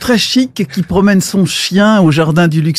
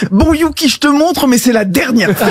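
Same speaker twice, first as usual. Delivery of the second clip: exasperated dog owner; 3 semitones higher, faster than usual. Acted. Owner losing patience with dog.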